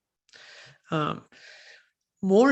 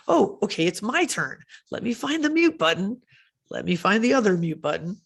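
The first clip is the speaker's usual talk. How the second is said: flustered participant; 4 semitones higher than usual. Pretend. Acting participant fumbling for mute.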